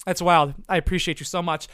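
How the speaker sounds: ordinary delivery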